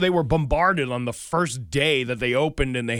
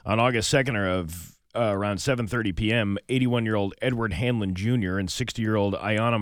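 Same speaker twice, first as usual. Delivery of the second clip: steady, lower radio news read; 5 semitones lower than usual. Acted. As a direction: read it as a local news bulletin. Reads the news segment.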